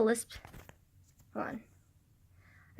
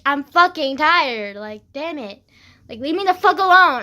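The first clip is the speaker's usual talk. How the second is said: retold angry retort; 2 semitones higher, 9 dB louder than usual. Acted angry retort to friend.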